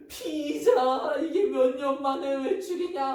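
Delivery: gasping, high-pitched delighted squeal; acting out a kid overjoyed at surprise news; excited child. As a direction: stretch it out high and loud, thrilled. Child thrilled at pizza outing news.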